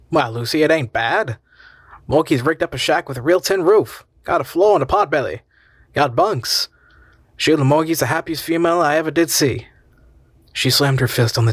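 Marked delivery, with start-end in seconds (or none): 0.1-9.7 lightly voiced easygoing husband, a touch higher; a tired man pleased after a long night; Ralph, easygoing husband. Ralph defends the dump.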